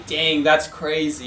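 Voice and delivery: slow, deadpan "Dang, that's crazy."; unimpressed dang, that's crazy. Shown as a demonstration. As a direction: drawl "Dang, that's crazy." slowly and flatly. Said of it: "you could say".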